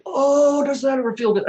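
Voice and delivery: high, loud moaning delight; blissful moan. Retold or imitated. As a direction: moan the words out with pleasure. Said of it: "and I'm moaning".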